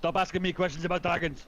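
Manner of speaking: loud, fed-up outburst; exasperated shout. Pretend. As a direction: snap it at them. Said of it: "Is that convincing enough to you?".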